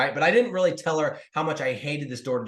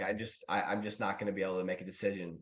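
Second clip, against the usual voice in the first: softer, sheepish retelling of caving; meek and defeated; 8 semitones lower, 10 dB quieter than usual. Retold or imitated. Telling the salesman he can't decide, meek and quiet. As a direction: mumble it like you've given up.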